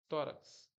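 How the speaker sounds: "tórax" with the stress on tó; stress on first syllable. Shown as a demonstration. Teacher showing a paroxytone example, first syllable of "tórax" stressed. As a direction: make the first syllable of "tórax" the strong one. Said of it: "A sílaba forte é o".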